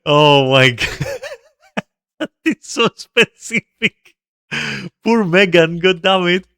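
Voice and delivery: high, slow laughing groan; laughing disbelief. Real, not acted. Streamer laughing at a misheard Megan Destroyer, high. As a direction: crack up at the misread name.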